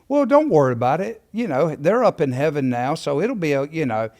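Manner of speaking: mock-casual, lightly dismissive reassurance; flippant. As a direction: toss off comfort flippantly. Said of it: "they just flippantly say".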